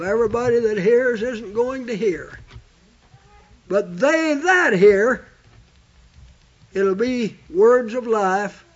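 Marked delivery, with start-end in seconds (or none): 3.7-5.3 slow with "that" held; stress on THAT. Shown as a demonstration. Preacher stressing the key word to the congregation. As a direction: weigh the word "that". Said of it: "that word "that" took on some importance".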